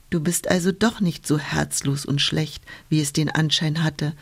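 smiling, gently. Acted. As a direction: wind kindly teases the cloud, smiling. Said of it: "sagte der Wind und lächelte".

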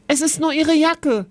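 high-pitched call across a yard. A narrator's reading. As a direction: shout the news over to a friend. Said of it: "rief Kevin Oskar zu".

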